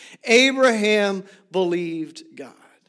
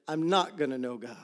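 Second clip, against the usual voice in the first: whispered; 6 semitones lower, 10 dB quieter than usual. Acted. Sermon point dropped to hush.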